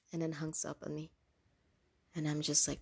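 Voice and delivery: usual speaking voice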